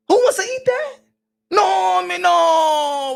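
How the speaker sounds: high, loud protest; mock horror. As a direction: cry out as if appalled by the idea. Acted horror at the idea.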